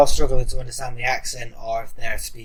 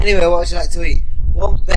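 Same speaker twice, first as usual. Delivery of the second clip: a customer's Hull voice, raised; own Hull accent; 6 semitones higher, 5 dB louder than usual. Retold or imitated. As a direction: order a burger in broad Hull vowels. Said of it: "And I go".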